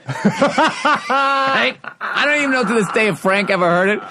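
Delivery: high, laughing through the words; can barely get it out for laughing. Real, not acted. Comedian telling a friend the heckle, laughing.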